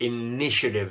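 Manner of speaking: initiative with -ni-, the second syllable, accented. In a Korean-language English pronunciation lesson, stress on second syllable of initiative. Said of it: "initiative 액센트가 이음절에 있습니다".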